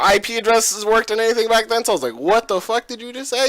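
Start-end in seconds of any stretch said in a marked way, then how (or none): 2.2-3.5 retold shock. Retells own shocked reply to friend.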